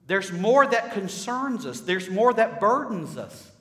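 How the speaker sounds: loud, high, drawn-out pulpit cries; impassioned preaching. Real, not acted. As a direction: build slowly to an emphatic peak.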